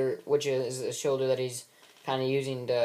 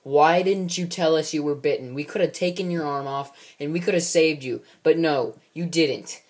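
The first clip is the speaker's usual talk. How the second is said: scolding; 3 semitones higher, 5 dB louder than usual. Retold or imitated. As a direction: tear into him for hiding the bite. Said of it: "kinda scolding Kid".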